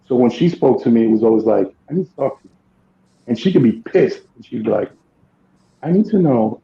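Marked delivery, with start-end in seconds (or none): 1.9-2.5 calm monotone. Retold or imitated. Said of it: "in a very monotone voice, very calm". 5.8-6.6 calm monotone. Retold or imitated. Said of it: "in a very monotone voice, very calm".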